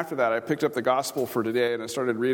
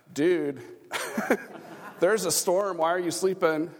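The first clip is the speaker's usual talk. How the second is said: casual modern dude; 5 semitones higher, slower than usual. Retold or imitated. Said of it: "They didn't say it like that".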